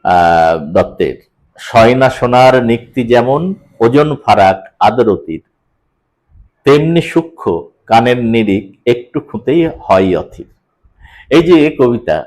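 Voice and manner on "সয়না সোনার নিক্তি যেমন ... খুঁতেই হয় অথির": poem recital. Shown as a demonstration. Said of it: "এই যে শেষের যে কবিতাটা পড়লাম".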